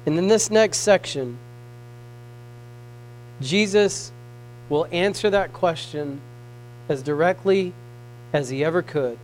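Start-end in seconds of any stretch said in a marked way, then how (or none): 3.4-9.2 softer, lower earnest teaching; hushed preaching. Acted. Preacher quietly pressing the point on listeners. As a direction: draw them close and lower the voice.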